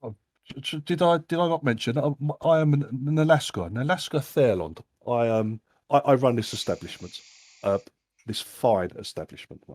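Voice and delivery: lightly voiced grand gentleman; pompous host. Host introduces himself grandly.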